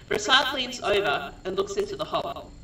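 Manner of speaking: measured stage-direction read; deliberate scene reading with pauses; script narration. A narrator's reading. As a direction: narrate the action phrase by phrase.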